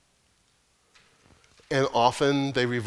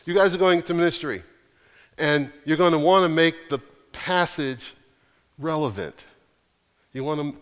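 quoting professor. Retold or imitated. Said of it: "He said".

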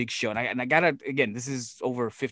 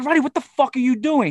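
high, louder retold chewing-out; exasperated scolding; 10 semitones higher, 5 dB louder than usual. Promoter retells calling Roddy, exasperated high scolding. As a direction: re-enact yelling at him down the phone.

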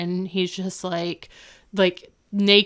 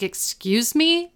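high, drawn-out rising disbelief; imitated incredulous challenge; mock indignant; 9 semitones higher, slower than usual. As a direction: retell an affronted "excuse me?", pitched way up. Retold indignant retort to face.

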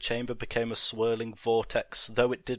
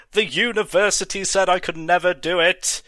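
loud, high furious scream; 8 semitones higher, 8 dB louder than usual. Acted. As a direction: scream it at the world. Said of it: "screamed Moreau".

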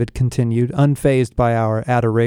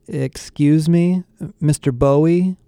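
awkward; 5 semitones higher than usual. Acted. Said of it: "I said awkwardly".

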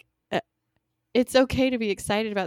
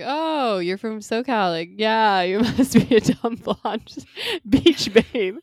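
mock foreigner stereotyping; slower than usual. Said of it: "how foreigners view Americans".

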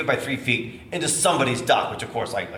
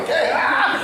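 high, loud yelped mock panic; panicked okay; 4 dB louder than usual. Husband answering his wife mid-crisis, hammed-up panic. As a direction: squeak out a frazzled okay.

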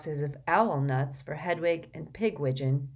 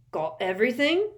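bright; 7 semitones higher, 7 dB louder than usual. A narrator's reading. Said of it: "asked Hagrid brightly".

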